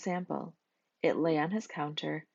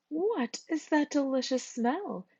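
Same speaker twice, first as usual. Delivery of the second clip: high, slow, sniffing voice; hopeful Miss Skunk; 10 semitones higher than usual. A narrator's reading. Miss Skunk smelling the rotten eggs, high and slow. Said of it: "She sniffed hopefully".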